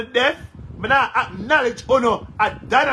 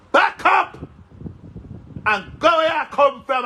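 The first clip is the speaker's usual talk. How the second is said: angry shout; 4 semitones higher than usual. Real, not acted. Shooing away a critic, angry.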